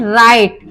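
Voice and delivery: राइट said without w, like rite; राइट with the w silent; silent w in right. Shown as a demonstration. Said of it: "वराइट नहीं बोलेंगे".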